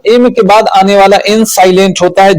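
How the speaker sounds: fast run-through of the rule; quick recap for students. Shown as a demonstration. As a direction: rattle the rule off again quickly.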